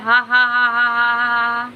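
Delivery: imitating a viewer's big laugh; mock laugh. Reading a viewer's laugh comment, loud mock laughter. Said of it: "सरिता भाभी को बहुत हंसी आती है".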